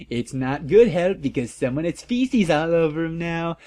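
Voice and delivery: high, huffy author rant; mock whiny author. Author snaps at flamers, high and huffy. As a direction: sputter it out in a huff.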